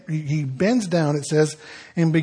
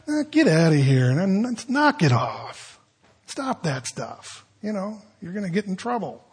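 casual brush-off; 3 semitones higher than usual. Retold or imitated. Preacher imagines Jesus casually shooing the woman off. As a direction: wave her off kindly, no big deal. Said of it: "I kinda see it as".

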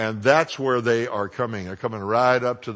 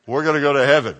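rousing; 3 semitones higher, 7 dB louder, faster than usual. Real, not acted. Preacher repeats the rallying line.

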